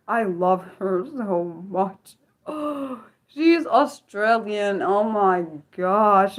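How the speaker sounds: slow, drawn-out swooning over someone; gushing adoration. Real, not acted. Fan gushing about an Australian true crimer, adoring. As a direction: gush slowly, stretching the words out.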